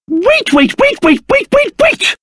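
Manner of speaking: rising frantic wait calls; building frantic call. Acted. Calling after departing party.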